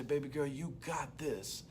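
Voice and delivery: soft, slow, encouraging voice to a little daughter; tender father. Retold or imitated. Loving father to baby daughter learning to walk, soft and tender. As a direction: coax her gently back up. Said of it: "as her loving father".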